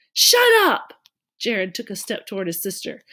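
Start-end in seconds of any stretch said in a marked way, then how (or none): 0.1-0.9 sharp, loud outburst; angry shout. Acted. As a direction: yell it, furious little brother. Brother yells at sister.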